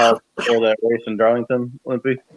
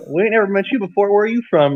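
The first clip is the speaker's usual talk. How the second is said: put-on southern accent; 9 semitones higher than usual. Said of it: "start talking in a southern accent".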